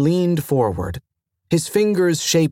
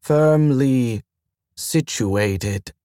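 slow, puzzled repeat, falling; slow echoed phrase; much slower than usual. Acted. Station AI echoing the mentor's phrase, slow and puzzled. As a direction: turn the words over slowly. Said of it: "the Admiral repeated".

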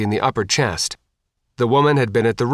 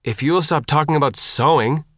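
snapping; 4 semitones higher than usual. Acted. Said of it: "Jack snapped".

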